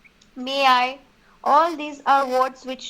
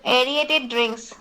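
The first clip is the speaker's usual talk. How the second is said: each syllable drawn out for the class; slow dictation; slower than usual. Shown as a demonstration. Teacher slowly dictating a phrase to trainee crew, drawn out. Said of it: "Sorry, ma'am?".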